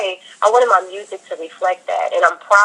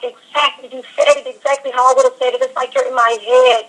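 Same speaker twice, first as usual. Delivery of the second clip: higher-pitched imitation of amazed listeners; retold gush of recognition, pitched up; delighted agreement; 5 semitones higher than usual. Friends hearing her songs and feeling understood, imitated delighted agreement.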